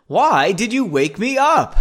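high, loud whiny complaint; hammed-up protest at being woken; acted indignation. A narrator's reading. Woman slapping him in story.

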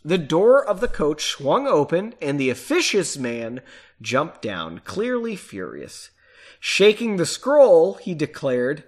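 measured audiobook-style reading with pauses; paced novel narration; story narration. A narrator's reading. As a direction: read it out deliberately, phrase by phrase. Reading the book aloud.

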